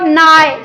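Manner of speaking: नाय drawn out so the आय is heard; teacher modelling a syllable; sounded out slowly. Shown as a demonstration. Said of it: "बोल के देखो".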